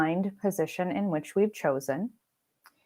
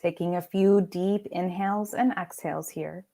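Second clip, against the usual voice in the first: unhurried meditation voice with long pauses; guided meditation. Acted. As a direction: lead them gently into rest, pausing between phrases. Leads guided meditation practice.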